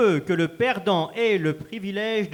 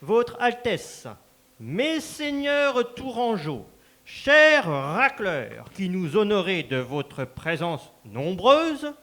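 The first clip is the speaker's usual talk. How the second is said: grand, formal announcer delivering the joust rules; ceremonial announcer. Acted. Master of ceremonies announcing the final joust to the crowd, formal and grand. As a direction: proclaim it to the whole hall like a herald.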